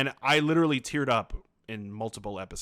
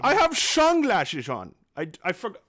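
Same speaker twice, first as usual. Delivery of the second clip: silly high voice; 11 semitones higher, 5 dB louder than usual. Acted. Hammy character in sunglasses.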